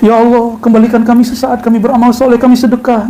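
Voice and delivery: a regretful soul begging for another chance; pleading to God. Acted. Dead man begs to return.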